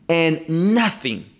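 "nothing" slow, drawn out and weighted; emphatic nothing. Real, not acted. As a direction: lean hard and slow on "nothing". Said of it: "and this is emphatic".

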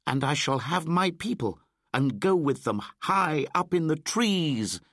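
put-on high, loud boyish shout. A narrator's reading. Mowgli shouts his plan to Baloo, high and loud. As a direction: call it out boastfully, high and loud. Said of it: "shouted Mowgli".

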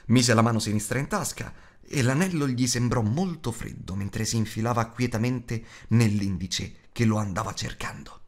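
ordinary delivery, nothing marked

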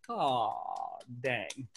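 deflated drop in pitch, played for laughs; disappointed parents. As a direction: lightly voice a let-down parent. Parents' disappointment, voiced in story.

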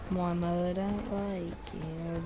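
lyric sung in a put-on Jewish accent; a hammed-up Jewish accent. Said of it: "This is the horror of Jewish accent".

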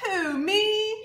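high, surprised puppet squeak. Pretend. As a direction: answer like a startled little animal. Puppet answers in rhyme.

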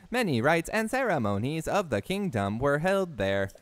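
stiff monotone robot voice. Pretend. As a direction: read it like a machine announcement. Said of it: "I can use my robot voice for this".

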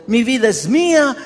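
imitating a defiant sinner; defiant quote. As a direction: throw it out like a rebellious sinner. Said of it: "y andamos diciendo".

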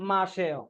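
"মাসেও" as masheo, falling at the end; "মাসেও" said without the i, dropping in pitch; contracted pronunciation. Shown as a demonstration. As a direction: answer with "মাসেও" merged to ma-she-o. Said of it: "উচ্চারণ হবে কি?".

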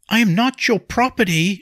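high, loud protest; called out. A narrator's reading. Wife calling after departing nobleman, loud and defiant. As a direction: shout it after him defiantly. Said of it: "she called".

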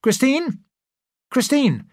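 calling her name up the house, high; excited call across the house; eager shout to his wife. A narrator's reading. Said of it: "called out".

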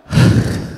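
long breathy sigh of relief; a tired child's big sigh of relief. Retold or imitated. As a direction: let all the air out after the effort. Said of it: "he lets out a big sigh".

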